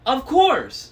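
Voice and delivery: very high, loud shriek; scream. A narrator's reading. Anger screaming by the window. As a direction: screech it proudly. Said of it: "screamed Anger".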